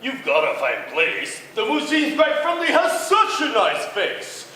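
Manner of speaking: high, loud squeaky spider; a tiny spider asking politely; little tree spider. Acted. Spider asks bug.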